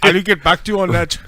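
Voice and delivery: words squeezed out through laughter; very slow, loud laughing reply. Real, not acted. Laughing at the bomb joke.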